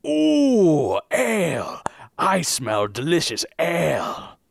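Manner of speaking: troll voice. Acted. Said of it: "dial in a troll voice here?".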